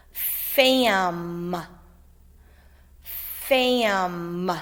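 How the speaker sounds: slow dictation word; dictated slowly. Shown as a demonstration. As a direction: say it clearly for spelling. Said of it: "The first word is".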